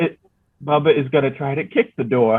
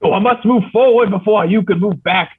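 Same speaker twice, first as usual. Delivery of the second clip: panicked character; 6 semitones higher, 4 dB louder than usual. Acted. Panicked character arguing through door.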